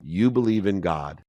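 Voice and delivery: gentle, knowing motherly tone; reassuring mom. Retold or imitated. Mother calmly reassuring her despairing son. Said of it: "She said".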